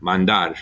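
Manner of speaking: Mandar with the weight on DAR; stress on final syllable. Shown as a demonstration. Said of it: "have the stress on the R".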